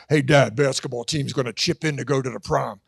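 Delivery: lightly voiced deep-voiced son. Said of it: "got a deeper voice".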